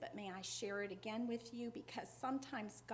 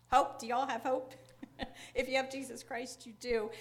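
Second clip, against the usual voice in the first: louder, laughing burst on hope; joyful outburst; 3 semitones higher, 12 dB louder than usual. Real, not acted. Preacher to congregation, joyful laughing shout.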